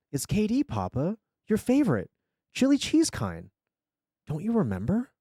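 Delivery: put-on high, eager little-boy voice, Russian accent; Russian-accented child. A narrator's reading. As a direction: coax Papa as a small Russian-accented boy. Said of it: "Russian accent".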